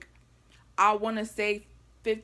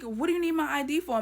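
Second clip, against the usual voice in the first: quick, higher-pitched retold challenge; indignant objection; 5 semitones higher, faster than usual. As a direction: push back at the request, retelling it.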